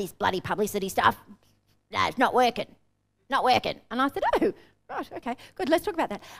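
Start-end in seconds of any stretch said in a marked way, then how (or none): 0.0-3.8 put-on gravelly voice. Retelling what a client said on a coaching call: imitating a gravelly voice. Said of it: "he had a really gravelly voice".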